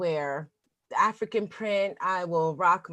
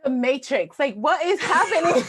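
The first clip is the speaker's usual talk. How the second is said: bewildered; 5 semitones higher, 6 dB louder than usual. Retold or imitated. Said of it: "She was just so bewildered".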